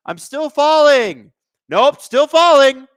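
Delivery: slow, drawn-out fake falling voice; hammed-up diver narrating his own fall; mocking the diver. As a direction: ham up a slow-motion dive. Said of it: "He was just like".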